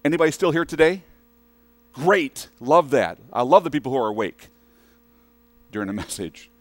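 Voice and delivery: loud, fast, playful jab at sleepy listeners; teasing callout. Real, not acted. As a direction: rouse the room with a grin.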